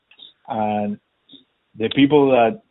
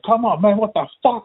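frustrated yell; 9 semitones higher than usual. Retold or imitated. Driver complaining to the cop, raised frustrated voice. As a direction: throw it up in frustration. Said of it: "I was like".

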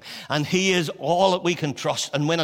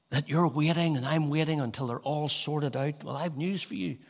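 much softer, close and sincere; intimate appeal; 5 dB quieter than usual. Acted. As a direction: speak gently to the hurting listener.

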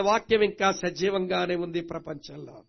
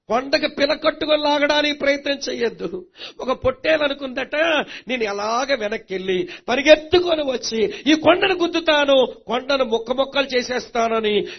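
higher, forceful parable telling; animated preaching; 4 semitones higher, 7 dB louder than usual. Real, not acted.

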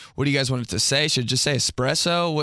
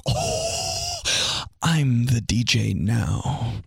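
smug DJ; much slower than usual. Retold or imitated. Smug friend playing music.

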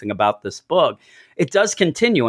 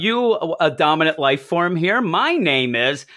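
high-pitched pompous greeting, mildly hammed up; mock a pompous alien introducing himself; lightly acted self-important greeting, starting high; 4 semitones higher than usual. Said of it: "he's just so pompous".

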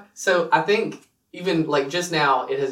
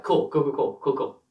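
repeated words as a character's tic; verbal tic. Shown as a demonstration. Player trying a quirk for his character, verbal tic. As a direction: rattle the words out like a habit. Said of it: "like, weird tick".

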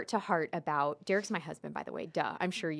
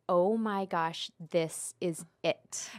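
slow, lightly teary retelling; a hint of the tears, drawn out; mock sobbing; slower than usual. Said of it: "sobbing, crying".

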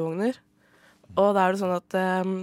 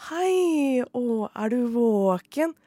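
put-on calm baby talk; 4 semitones higher, much slower than usual. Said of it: "snakker veldig sånn tydelig og avslappet".

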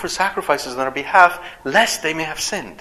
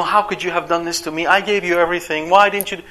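mock angry rant; 3 semitones higher, faster than usual. Shown as a demonstration. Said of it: "There's no, ... none of that".

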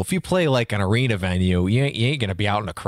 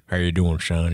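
put-on mountain Southern accent; 4 semitones lower than usual. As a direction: greet him like an old mountain Southern man. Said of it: "it's like a mountain Southerny".

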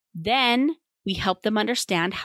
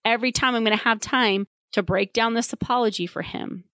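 exasperated parent; 4 semitones higher than usual. Retold or imitated. Tired parent rants at the therapist, exasperated. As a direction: vent like a swamped parent. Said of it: "And you're thinking".

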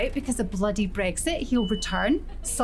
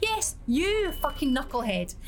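calling out; 3 semitones higher, 4 dB quieter than usual. Acted. Calling out on bus.

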